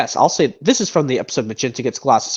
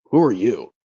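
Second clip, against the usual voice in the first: Han Solo impression; 3 semitones lower than usual. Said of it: "another impression from this movie".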